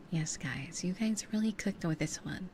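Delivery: voiced awards-show announcer. Shown as a demonstration. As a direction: hype it like an award host. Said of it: "What if I sound like an announcer".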